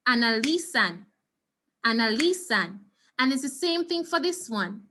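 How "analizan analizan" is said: analizan with LI pressed, anaLIzan; stress on li. Shown as a demonstration. Teacher drilling the stressed syllable for students. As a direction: hit LI in analizan for a finger snap. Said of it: "snap your finger when you get to the syllable".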